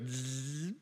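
long buzzing zip; zipper sound. Shown as a demonstration. Preacher explaining onomatopoeia, imitating a zipper's buzz. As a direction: imitate a zipper with a drawn-out zzz. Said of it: "A zipper goes".

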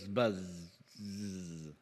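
low, soft drawn-out buzz; bee buzz. Shown as a demonstration. Preacher illustrating onomatopoeia with a buzzing bee sound. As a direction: imitate a bee with a trailing zzz. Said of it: "like a bee, it goes".

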